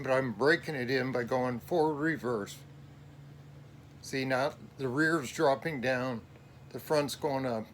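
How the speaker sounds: shaky cold voice. Real, not acted. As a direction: voice shaking from the cold. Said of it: "My voice sounds shaky is because I'm cold down here".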